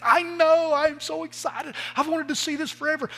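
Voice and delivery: high, eager rush of a thrilled daughter; bubbling over with excitement; excited daughter. Retold or imitated. Daughter telling Dad at the show, excited and high.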